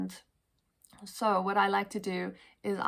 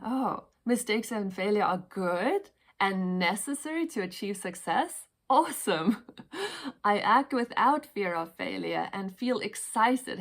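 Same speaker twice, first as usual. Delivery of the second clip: affirmations said with rising delight; excited, with emotion; 3 dB louder than usual. Shown as a demonstration. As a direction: read it like it truly thrills you. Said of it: "you can already see the emotion coming in".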